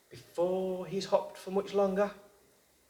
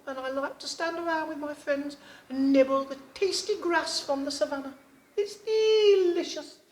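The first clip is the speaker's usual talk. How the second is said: zebra; 10 semitones higher than usual. A narrator's reading. Zebra answers the frog.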